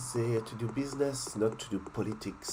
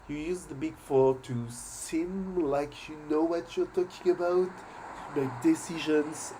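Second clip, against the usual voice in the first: more heated retake; 5 semitones higher than usual. Shown as a demonstration. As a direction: push it with more heat. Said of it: "retake of the line".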